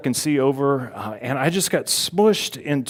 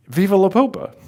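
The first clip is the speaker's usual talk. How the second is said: high, excited mock cheer; imitated yelling; 8 semitones higher, 4 dB louder than usual. Speaker joining the crowd's cheer for the Pope, high mock yell. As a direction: reenact getting swept up in the chant. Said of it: "and I start yelling".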